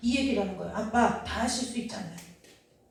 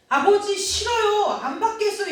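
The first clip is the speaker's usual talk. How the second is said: put-on childish refusal; 7 semitones higher than usual. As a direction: refuse the father like a stubborn child. Imagined refusal to the father.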